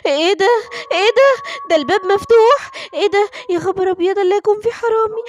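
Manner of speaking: acted fright, pitch climbing; alarmed discovery. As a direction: gasp and panic as you spot an intruder. Wife discovers open door, thief.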